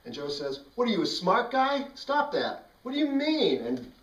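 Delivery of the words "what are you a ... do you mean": high, loud mock-tough challenge; tough-guy taunt. Joe challenging the kid with the bee, a loud taunt. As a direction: sneer it like a wannabe bully.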